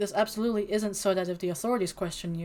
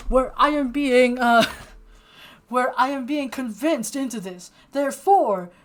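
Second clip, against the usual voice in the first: courtroom lawyer; 4 semitones higher, 8 dB louder than usual. Pretend. Mock courtroom defense continues.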